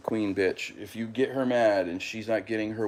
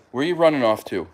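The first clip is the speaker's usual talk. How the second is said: calling after the pet; 4 semitones higher, 4 dB louder, faster than usual. Real, not acted. Calling cat back.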